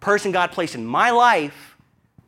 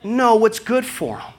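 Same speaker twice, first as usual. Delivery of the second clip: laughing it out, louder; 6 semitones higher, 5 dB louder than usual. Real, not acted. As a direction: push through the laughter.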